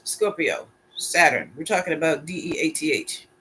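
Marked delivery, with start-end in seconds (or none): 2.3-3.3 spelled out. Shown as a demonstration.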